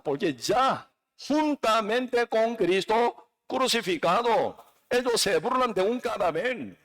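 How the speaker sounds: high-pitched, insistent preaching; fervent preaching. Real, not acted. Preacher declaring his freedom to the congregation, fervent and high. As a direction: preach it with rising conviction.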